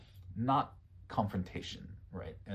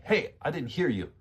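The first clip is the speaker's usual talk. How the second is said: higher-pitched, pushy complaint; aggressive; 5 semitones higher than usual. Shown as a demonstration. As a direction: say it as an aggressive demand. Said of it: "not so aggressive. You're not, like, saying".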